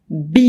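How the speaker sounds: B as bee, lips then long ee; letter B. Shown as a demonstration. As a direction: say B clearly, American style. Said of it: "للletter B".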